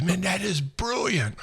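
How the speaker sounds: drawn-out, lightly put-on Englishman; imitating the British guy. British guy marvels to the narrator, in a slow, light mock British accent. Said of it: "He goes".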